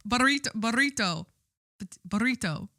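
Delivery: repeated tries at rolling the R in Burrito; rolled R. Shown as a demonstration. Podcaster practising a Spanish word, rolled R in Burrito. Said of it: "roll the R".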